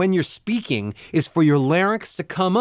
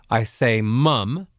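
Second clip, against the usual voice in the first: low larynx mum; 4 semitones lower, much slower than usual. Shown as a demonstration. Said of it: "Now say".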